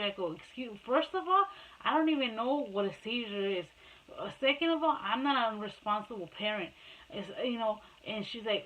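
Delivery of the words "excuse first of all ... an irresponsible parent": indignant retort. Retold or imitated. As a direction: argue back point by point, offended. Mother argues back in retold quarrel.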